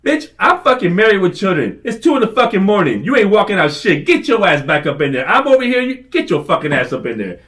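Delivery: re-enacted scolding rant; retold berating. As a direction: berate a kid trying to walk out. Retold berating kid walking out.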